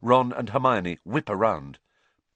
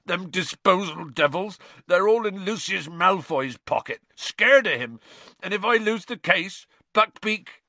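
loud, high-pitched tearful rant; sobbing; 11 semitones higher, 6 dB louder than usual. A narrator's reading. Gamekeeper fears losing the case, sobbing. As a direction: wail on, climbing in pitch. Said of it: "sobbed Hagrid".

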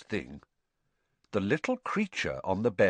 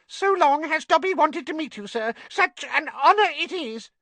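high, loud house elf full of awe; high-pitched creature; 5 dB louder than usual. A narrator's reading. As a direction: gush it in a piercingly high little voice. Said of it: "in a high-pitched voice".

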